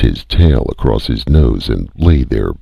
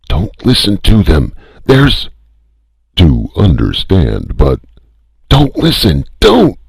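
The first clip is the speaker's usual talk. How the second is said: much higher, louder desperate yell; frantic shout; 8 semitones higher, 4 dB louder than usual. A narrator's reading. The other voice drowning out the spaceport, frantic shout. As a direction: scream him down.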